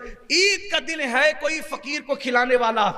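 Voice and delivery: beggar calling out. Retold or imitated. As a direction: stretch the call out like a beggar at the door.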